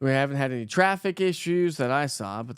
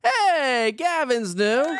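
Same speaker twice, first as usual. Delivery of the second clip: high, loud, drawn-out welcome; excited shout-out; 10 semitones higher, 5 dB louder, much slower than usual. Real, not acted. Host hailing new viewer Gavin, excited shout-out. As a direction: call it out long and high.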